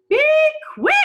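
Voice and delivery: loud urgent shriek. A narrator's reading. Angela urging the rescuers, loud shriek. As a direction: hurry them along in a panic. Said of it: "Angela shrieked".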